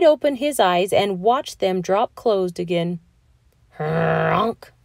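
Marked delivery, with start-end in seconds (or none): 3.8-4.7 snore. Acted. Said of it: "said Mister Bear".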